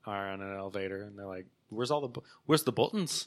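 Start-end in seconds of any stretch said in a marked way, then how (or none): 1.7-3.3 lightly voiced Scottish man, puzzled; imitated Scottish accent. Retelling a skit of two Scots in an elevator, Scottish accent. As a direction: do a Scot hunting for something. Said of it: "These two, these two Scottish guys".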